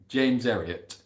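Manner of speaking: "James Herriot" in Yorkshire with the H dropped; lightly put-on Yorkshire accent, silent H. Shown as a demonstration. Repeats name in Yorkshire accent.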